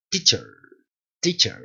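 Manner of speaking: "teacher" with only the tongue shaping a faint last vowel; tongue-led weak ending. Shown as a demonstration. Teacher drilling the word, correct weak ending. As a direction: repeat "teacher" with a nearly silent E. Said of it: "la lengua en este punto".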